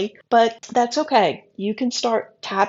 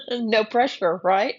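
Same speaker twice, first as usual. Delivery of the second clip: dry sarcasm after a chuckle; mildly sarcastic. Real, not acted. Astrologer teasing Sagittarius about a tall order, mildly sarcastic. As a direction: say it with light, knowing sarcasm. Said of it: "I sound kind of sarcastic".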